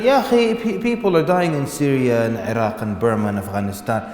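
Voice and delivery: hammed-up indignant excuse; mock protest. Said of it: "Just the minute you mention the sunnah".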